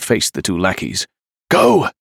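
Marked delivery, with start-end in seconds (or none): 1.5-1.9 high-pitched shouted command; urgent shout. A narrator's reading. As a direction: shout to friends to flee. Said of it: "he shouted to the others".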